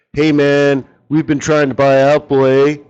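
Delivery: lightly voiced laid-back Canadian surfer, a touch of a Canadian accent; Canadian surfer imitation. Mocking a portfolio manager as a mild Canadian surfer type. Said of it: "talks like a, a Canadian surfer".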